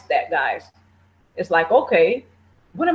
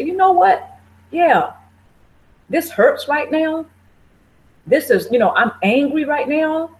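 higher, earnest self-encouragement; pep talk to yourself; 6 semitones higher than usual. Retold or imitated. Coaching yourself through pain and anger, earnest. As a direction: admit the hurt but stay kind. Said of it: "You have to pep talk yourself and say".

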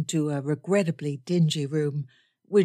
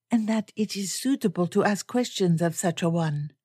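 lightly lilting, formal explanation; measured English with a hint of foreign dignity; poised foreign lady; 2 semitones higher than usual. Miss Smith justifying questions to the major, lightly lilting poise.

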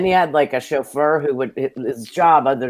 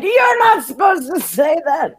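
much higher, exasperated inner protest; mock exasperation; 3 dB louder than usual. New hire reacting to the receptionist's overshare, high and exasperated. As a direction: squeak it out, scandalized.

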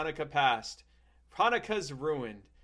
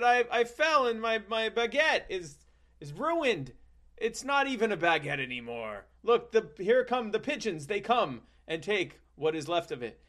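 put-on childish self; 6 semitones higher than usual. Young self voiced in story.

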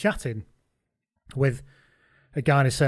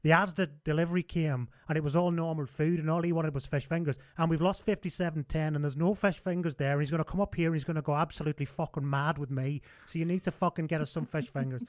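Humphries voice; 3 semitones higher than usual. Retold or imitated. Humphries voiced in retold story.

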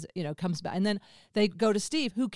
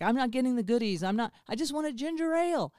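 put-on fast, higher whiny kid voice; whiny inner child; 4 semitones higher, faster than usual. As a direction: whine it like a sulky child. Inner child whining for goodies.

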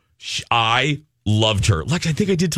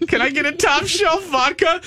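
pointed request. Retold or imitated. Jen asking pointedly for top shelf.

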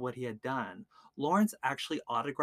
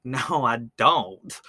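louder, drawn-out acted refusal; retold defiant refusal; 6 dB louder, much slower than usual. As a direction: imitate someone refusing, stretching the words. Retells victim refusing the killer's demand.

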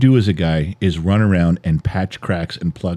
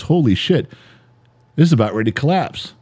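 quick, lightly alarmed reaction; acted alarmed wife; 4 semitones higher than usual. Wife seeing the cracks in the dam, alarmed. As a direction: play a wife suddenly seeing the danger. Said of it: "all of a sudden the wife goes".

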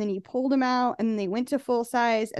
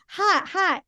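hot food gasp; 6 semitones higher than usual. Retold or imitated. Retold mouth burned by pizza.

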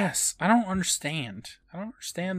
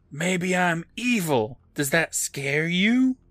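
slow sinister voice; 5 semitones higher, slower than usual. Retold or imitated. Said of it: "And Steve responds".

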